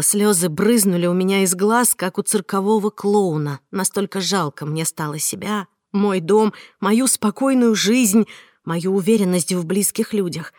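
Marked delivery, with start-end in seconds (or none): none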